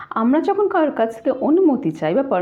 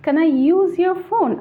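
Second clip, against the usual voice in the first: very slow, higher, word-by-word read-out; slow dictation; 8 semitones higher, much slower than usual. Shown as a demonstration. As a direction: dictate each word slowly for the class. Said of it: "then exercise number two".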